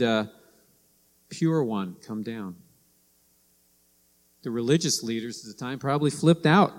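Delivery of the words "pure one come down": gentle call. Retold or imitated. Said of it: "No, he said".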